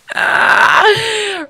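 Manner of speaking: high, drawn-out whiny cry; tearful groan. Real, not acted. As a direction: let out an emotional wail. I'm very emotional.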